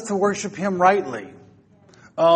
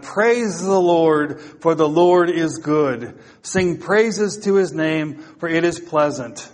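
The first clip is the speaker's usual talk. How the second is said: declaimed scripture reading. Real, not acted. Preacher reading Psalm one thirty-five to congregation, declaimed.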